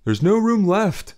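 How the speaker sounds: loud, slow shouted refusal; shouting. Acted. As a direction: shout back from inside. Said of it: "someone inside shouted".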